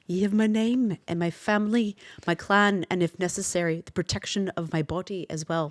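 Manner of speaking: earnest Scottish vow; a light Scottish accent, sincere. Acted. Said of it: "our Scottish reading".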